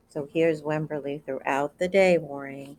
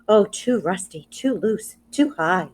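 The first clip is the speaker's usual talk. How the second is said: put-on fretting child; 3 semitones higher, 4 dB louder than usual. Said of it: "she would say".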